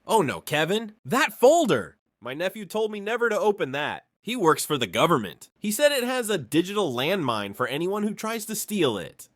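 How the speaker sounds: mock panic, pitch climbing on that folder; panicked old man. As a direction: play up the frightened victim. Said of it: "sounding even more panicked than before".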